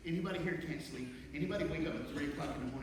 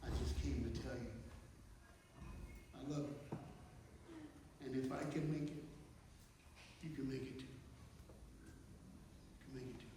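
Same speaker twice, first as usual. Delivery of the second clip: tender reassurance; 9 dB quieter than usual. Real, not acted. Tender encouragement closing to students.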